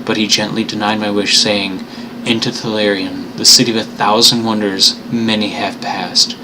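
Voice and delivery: slow, grave reading of the dream city; slow story narration. Acted. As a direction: let each clause hang ominously. Lovecraft reading, slower.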